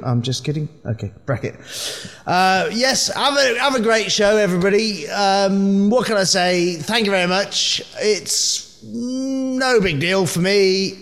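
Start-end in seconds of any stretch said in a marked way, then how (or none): 2.2-10.9 pretending to be Jokeworm. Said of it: "I'm actually Metro Star making the rest of that up".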